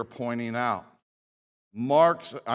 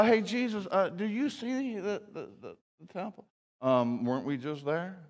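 mock clueless disciple; 4 semitones higher, 5 dB quieter than usual. Mocks disciples pointing at the temple.

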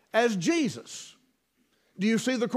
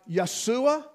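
slow, careful Yeshua, drawn out; over enunciating; 2 semitones higher than usual. Shown as a demonstration. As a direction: draw out Yeshua syllable by syllable. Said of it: "if I say it slowly".

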